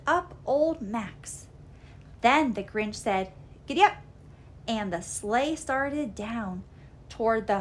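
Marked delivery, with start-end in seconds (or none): 3.7-4.0 higher, louder call; calling giddy up. Acted. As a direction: urge the dog on. Grinch drives the sleigh.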